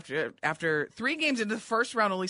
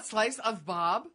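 puzzled question; 4 semitones higher, slower than usual. Real, not acted. Repeating the misheard name, puzzled.

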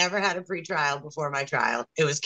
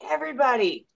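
lightly voiced crowd marshal, pitched up; megaphone announcer; 8 semitones higher than usual. Protester on a megaphone to the crowd, mock announcing voice. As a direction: imitate a man addressing a crowd, higher than usual. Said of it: "he gets on a megaphone".

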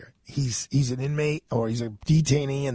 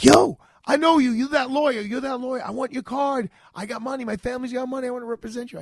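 high, excited street voice calling out; eager inmate; 9 semitones higher than usual. Retold or imitated. Inmates in the hallway calling out to the lawyer, high and eager. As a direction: pester the lawyer for his card. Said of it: "they're like".

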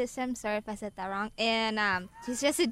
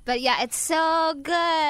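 talking around a cough drop; mouth full; 6 semitones higher, 6 dB louder than usual. Real, not acted. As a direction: say it through a lozenge. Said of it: "She's got a mouthful".

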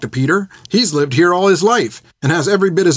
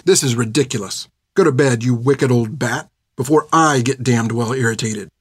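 angry outburst; 2 semitones higher than usual. Acted. Finn yells at the old nun Hilda, furious. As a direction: let the insults pile up, hotter and hotter. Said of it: "as she'd yelled at her".

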